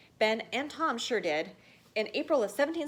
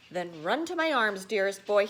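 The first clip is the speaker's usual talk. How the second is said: fond cry; 5 dB louder than usual. Acted. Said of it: "he cried his father".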